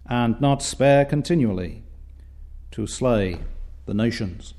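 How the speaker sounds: put-on measured, formal reading of old biblical verse; solemn Scripture reading. Preacher reading the prophet's words to the congregation, solemn Scripture reading. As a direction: read it out reverently, phrase by phrase.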